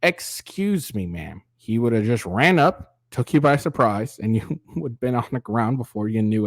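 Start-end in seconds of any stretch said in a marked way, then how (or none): 0.0-1.4 sweetly polite stranger; a lilting, overly courteous "Excuse me, ma'am". Retold or imitated. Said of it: "he would not have started off with".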